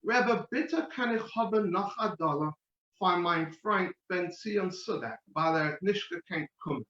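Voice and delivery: put-on a boy from London asking politely in Yiddish with a British accent. Schoolboy asking the Rebbe for another dollar, Yiddish with a light British accent. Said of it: "I'll say it with the little British accent".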